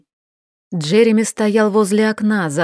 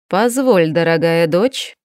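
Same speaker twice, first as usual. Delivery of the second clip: «дочь» lower and weighty, set apart; stress on дочь; 3 semitones lower than usual. Acted. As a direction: lean hard on the word «дочь». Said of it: "Особо выделил он последнее слово". (с нажимом на «дочь»)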